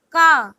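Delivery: ka said as open "kah"; Spanish letter K. Shown as a demonstration. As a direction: say ka the Spanish way, not "kay". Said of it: "K is pronounced as".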